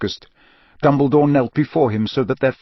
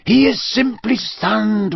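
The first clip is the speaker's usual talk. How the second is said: slow, higher steady Dumbledore voice; calm old wizard; 9 semitones higher, slower than usual. A narrator's reading. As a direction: soothe the panicking elf. Dumbledore calms the elf.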